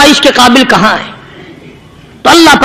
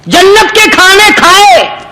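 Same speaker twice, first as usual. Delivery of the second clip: talking dog; 6 semitones higher than usual. Acted. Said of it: "وہ یہ کہنے لگا".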